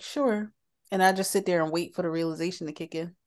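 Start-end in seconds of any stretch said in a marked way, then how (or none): 0.0-0.5 sarcastic. Retold or imitated. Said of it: "being real sarcastic".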